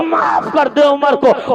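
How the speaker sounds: put-on calling out slowly to the old mother, beseeching; slow pleading cry. (بوڑھی ماں سے آہستہ اور بلند آواز میں التجا)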